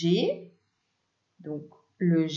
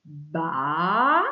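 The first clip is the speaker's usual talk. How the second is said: "ba" held long, rising at the end; stretched syllable; 3 dB louder than usual. Shown as a demonstration. Teacher isolating the first sound to write, stretched syllable. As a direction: draw out "ba" as one long sound. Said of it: "dans un premier temps le son".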